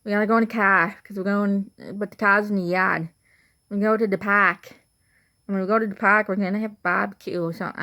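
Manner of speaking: Boston accent, R dropped in car, yard and park; broad Boston vowels with the R's left off. Shown as a demonstration. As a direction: demonstrate Boston "cah", "yahd", "pahk". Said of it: "when I say car".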